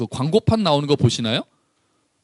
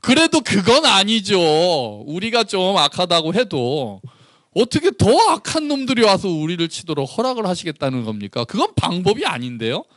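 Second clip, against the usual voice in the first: pressing protest; 4 semitones higher than usual. Retold or imitated. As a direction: push back at God, dragging the words out. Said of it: "하박국이 한 번 더 갑니다". (하나님께 다시 따지는 하박국의 항의)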